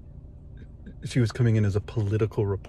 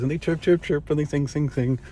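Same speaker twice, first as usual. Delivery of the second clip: higher, light bird-like sing-song; mock chirping; 5 semitones higher than usual. Teasing the radio host's reporter buddies, imitated sing-song chirping. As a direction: chirp the words like chattering birdies. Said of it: "they have their sing-songy voices".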